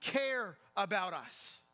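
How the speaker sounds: high, slow, drawn-out desperate yell. Acted. Frightened disciples pleading with Jesus in the sinking boat, yelling. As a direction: cry out as if about to drown. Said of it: "They're yelling at him".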